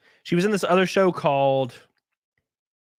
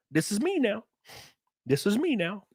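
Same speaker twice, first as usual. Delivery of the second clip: lightly hammed Russian accent, higher and softer; mock Russian accent; 6 semitones higher, 5 dB quieter than usual. Streamer mocking an actress who learned off YouTube, Russian accent. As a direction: do a badly practiced Russian accent. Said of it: "typed in Russian accent".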